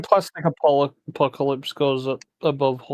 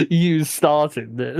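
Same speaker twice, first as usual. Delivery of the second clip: laughing playful accusation; much slower than usual. Acted. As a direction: giggle through it, slow. Playful blame banter.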